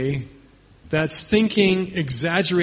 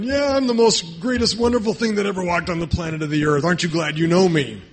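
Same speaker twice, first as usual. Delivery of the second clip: mock boasting; 3 semitones higher, faster than usual. Preacher mimics someone going around with chest puffed out, boasting. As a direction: puff out your chest in mock self-praise. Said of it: "with your chest puffed out and boasting".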